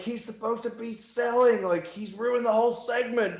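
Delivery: hammed-up high fury; angry rant. Jeff ranting, retold.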